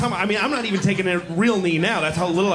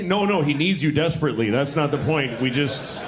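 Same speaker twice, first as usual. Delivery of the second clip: condescending New Yorker; 2 semitones lower than usual. Retold or imitated. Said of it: "we start correcting her behavior".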